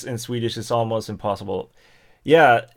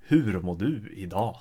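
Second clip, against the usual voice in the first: northern Swedish dialect; 3 semitones lower, 5 dB quieter than usual. Shown as a demonstration. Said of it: "Northern dialect would be more".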